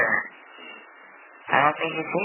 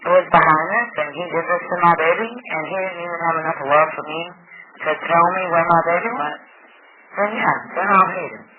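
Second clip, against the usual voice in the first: louder, welling up with fury; rising grieving anger; 5 dB louder than usual. Real, not acted. Mother telling police she will hate him only if proven, getting heated. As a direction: push harder as the grief turns to anger.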